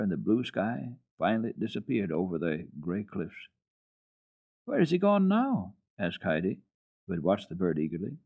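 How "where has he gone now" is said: put-on eager child. A narrator's reading. Heidi asks eagerly.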